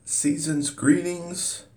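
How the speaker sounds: high, slow cartoon announcer voice; sing-song cartoon greeting; old cartoon voice. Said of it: "I sound like one of those old cartoons from the seventies".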